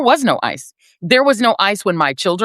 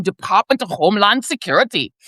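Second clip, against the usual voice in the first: light mock German accent; a touch of German on the agency title. Shown as a demonstration. Calling the agency Nazi-sounding, lightly put-on German accent. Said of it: "creating this German-sounding".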